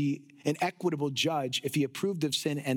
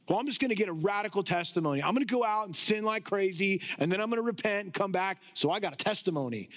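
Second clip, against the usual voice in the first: quick, lightly mocked carefree planner; casual would-be sinner; faster than usual. Imagined believer planning to sin for a testimony, lightly mocked fast patter. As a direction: rattle off the plan casually.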